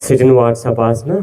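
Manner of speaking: calm teacher easing the class into a pose; slow, drawn out. Shown as a demonstration. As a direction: stretch every word of Vatsapasana out slowly. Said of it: "yoga pose instruction". (నెమ్మదిగా సాగదీసి చెప్పిన ఆసనం పేరు)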